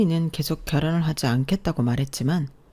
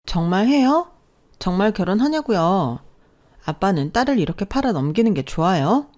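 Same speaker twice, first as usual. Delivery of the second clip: much higher, louder outraged daughter; angry protest; 4 semitones higher, 3 dB louder than usual. Acted. Daughter protesting to her father, angry and shocked. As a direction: hurl it at him in disbelief.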